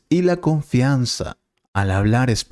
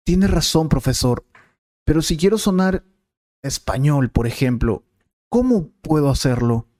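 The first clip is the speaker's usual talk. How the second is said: higher, eager student asking the teacher; 5 semitones higher than usual. Acted. Student thanks the teacher and asks, in a higher eager voice. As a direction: play the keen student, pitched up.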